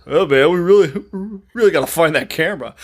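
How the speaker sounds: imitating a sheepish little nerd; mock nerdy. Bandmate to angry singer about lost camera, mock nerdy. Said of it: "like, nerdiest way".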